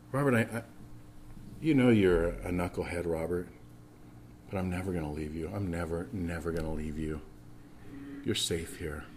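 soft, low and hushed reassurance; gentle voice of God. Pretend. Pastor voicing God reassuring him, soft and tender. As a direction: murmur it like a father holding a child close.

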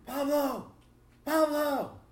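loud, high call across the airport. Retold or imitated. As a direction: call the name out to catch someone's attention. Retells being called out to.

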